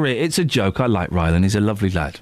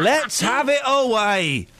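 slow amused chuckle through the words; laughing as you repeat it; 3 semitones higher, slower than usual. Real, not acted. Repeating own cheeky line laughing.

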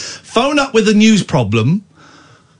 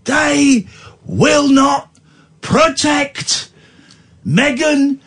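mock outrage; 7 semitones higher, much slower than usual. Mock outrage, slow and high.

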